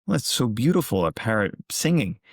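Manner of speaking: delighted admirer. Retold or imitated. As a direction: gush a little over the lovely parrot. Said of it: "Second person walks by and goes".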